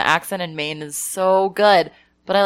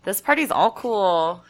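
put-on New Mexican accent; slower than usual. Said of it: "it just, like, would happen".

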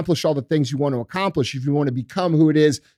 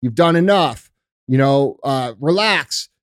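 bitch voice; slower than usual. Retold or imitated. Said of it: "It's the voice that says".

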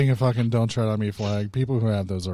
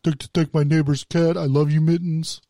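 Josh impression; 4 semitones higher than usual. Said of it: "the speaker did a Josh impression".

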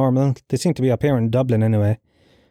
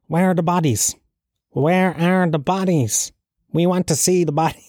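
ranting Cork protester; 6 semitones higher than usual. Retold or imitated. Man in Cork demanding bodies in a video, mock indignant. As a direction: imitate a protester crying out, pitched up. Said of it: "the guy in Cork going".

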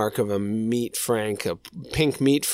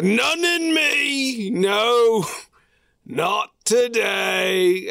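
declaring; 8 semitones higher, much slower than usual. Retold or imitated. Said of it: "Like he's declaring it".

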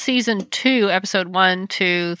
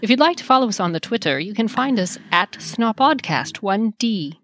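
put-on crisp T's, old movie star transatlantic accent; a light transatlantic accent, T's clear. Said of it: "pronunciation of T's is vital to this".

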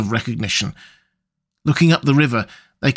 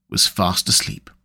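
hushed, lower whisper; whispered ending; 7 semitones lower, 3 dB quieter than usual. A narrator's reading. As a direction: whisper it so as not to wake him. Rat falls asleep, closing line.

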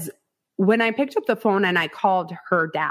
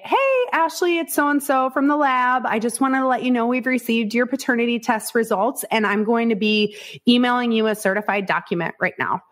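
lab caller; 3 semitones higher than usual. Retold or imitated. Lab caller voiced in retelling.

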